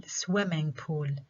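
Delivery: SWIMming pool, said slowly; slow down and stress "swim" in "swimming pool"; first-syllable stress. Shown as a demonstration. Teacher demonstrating stress after explaining it, first-syllable stress. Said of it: "الستريس على المقطع الأول".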